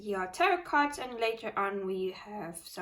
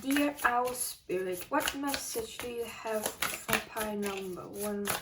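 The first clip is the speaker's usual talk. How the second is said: slow invocation. Acted. Invoking the spirit again.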